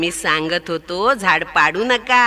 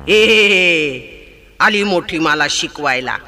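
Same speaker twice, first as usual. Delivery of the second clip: angry elephant; 3 semitones lower than usual. Acted. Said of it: "हत्तीनं रागा रागानं चिमणीकडे पाहिलं".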